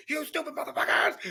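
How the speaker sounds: yelled high at the screen in disbelief; reliving anger at the documentary; angry outburst. Retold or imitated. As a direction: let the frustration burst out. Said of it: "Like, I was angry".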